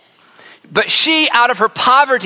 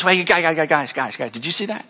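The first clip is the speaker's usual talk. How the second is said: hushed excited call; 4 semitones lower, 5 dB quieter than usual. Retold or imitated. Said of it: "Jesus goes".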